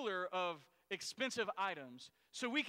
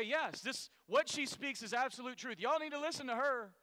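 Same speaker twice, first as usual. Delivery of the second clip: mock preaching Paul; 3 semitones higher than usual. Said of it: "Paul would say".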